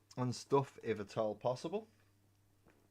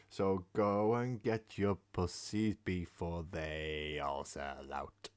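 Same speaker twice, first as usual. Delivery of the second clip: slow, hammed-up sales pitch; mock newsletter ad read; 4 dB louder, slower than usual. Streamer reads the cat email to chat as a mock ad. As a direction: read it out like a cheeky advert. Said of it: "First time I've ever done a newsletter".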